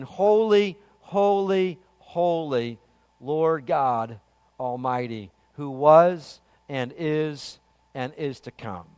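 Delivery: slow, reverent scripture quote, descending in pitch; reverent cry. Retold or imitated. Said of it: "the four living creatures cry out".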